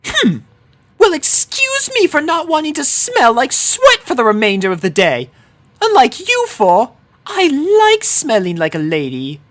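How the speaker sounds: high, haughty lady voice; offended Rarity. A narrator's reading. Rarity offended by Dash's teasing, high haughty lady voice. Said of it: "Rarity flipped her hair, offended".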